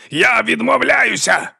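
high, slow defiant cry; defiant yell. A narrator's reading. Sorcerer refusing the princess, high slow defiant yell. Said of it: "закричав Бальтазар".

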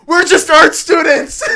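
high, drawn-out retold yell; shout. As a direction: holler it out slowly in mock panic. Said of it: "I shout".

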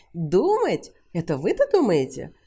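loud, scornful outburst; insulted man yelling at Sally; furious shout. A narrator's reading. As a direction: blast the words at her. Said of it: "завопил Уилт".

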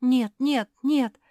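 high, loud panicked protest; scared cry; frightened. A narrator's reading. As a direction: beg in a fright. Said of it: "испугалась Рада".

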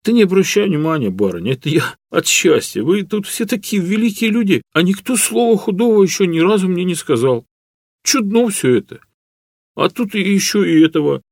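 a shy serf close to tears of joy; humble serf Matvey. A narrator's reading. Peasant Matvey voiced. (робкий крестьянин, высоким голосом от счастья)

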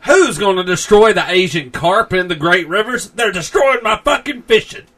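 high, loud furious yokel rant; angry customer testimonial. Acted. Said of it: "Here's a testimonial from a pleased customer".

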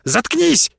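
very high screamed shut up; shrieked order. A narrator's reading. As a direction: scream him down. Marис screams at Эдван.

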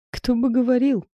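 scoffing. Acted. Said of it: "фыркнула я".

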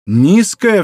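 de Guiche protests her word, crying out loudly; exclaiming. Acted. Shocked exclamation, loud and high. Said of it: "вскричал молодой человек".

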